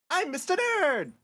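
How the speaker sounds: high, slow nerd voice; nerdy voice. Acted. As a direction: announce yourself proudly. New character introduces himself.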